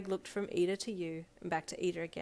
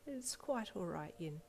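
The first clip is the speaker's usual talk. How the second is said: slow, soft and gentle; soft smile; 5 dB quieter, slower than usual. Acted. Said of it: "with a soft smile".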